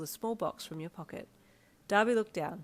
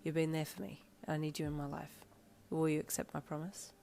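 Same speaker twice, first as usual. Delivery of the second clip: sincere; 2 semitones lower, 7 dB quieter than usual. A narrator's reading. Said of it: "with such sincerity".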